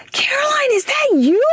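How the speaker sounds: high, surprised recognition voice; imitating the friend. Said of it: "she was like".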